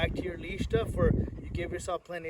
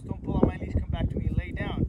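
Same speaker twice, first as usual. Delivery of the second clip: firm louder commands; 6 dB louder than usual. Shown as a demonstration. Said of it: "the three basic components".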